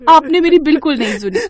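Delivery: half-scold, half-cry at her father; tearful scolding. Acted. Daughter scolds her sick father, voice turning tearful. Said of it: "ये कहकर निशा रोने लगती है".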